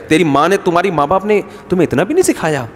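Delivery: mock mother-in-law's reproach, pitch rising and falling; lightly acted scolding of a daughter-in-law. Mother-in-law faulting the bride's upbringing, mock scolding. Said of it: "ساسیں کہہ رہی".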